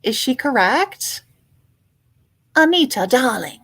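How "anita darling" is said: louder, lightly voiced grand villainess; louder, lightly voiced Anita darling quote; Disney villain quote. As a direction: purr it like a theatrical villainess. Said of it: "that's from a Disney movie".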